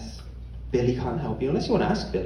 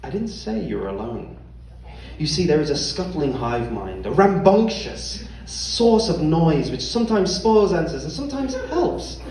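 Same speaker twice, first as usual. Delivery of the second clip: game master narration. Acted. Game master introduces the crowd.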